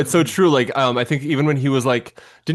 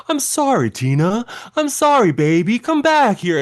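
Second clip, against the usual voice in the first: high, pleading mock melodrama; earnest eighties acting; 11 semitones higher, 5 dB louder than usual. Co-host imitating a character begging Tina back, hammed-up earnest. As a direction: overplay an earnest eighties apology. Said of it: "just something so earnest, the way".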